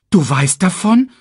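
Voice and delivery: high, loud rising question; Simba. A narrator's reading. Cub surprised his uncle knows, high and questioning. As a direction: ask startled, in a cub's voice. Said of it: "fragte Simba".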